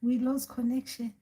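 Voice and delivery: acted old granny reconnecting; returning ancestor. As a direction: pipe up softly as a great-grandmother spirit. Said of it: "And they come back".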